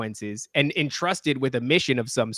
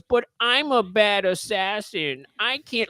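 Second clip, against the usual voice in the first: higher, slow, whimpering mock excuse; whiny assassin; 7 semitones higher, slower than usual. Mocking an assassin who refuses the Pope, high and whiny. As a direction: whine it like a scared kid dodging work.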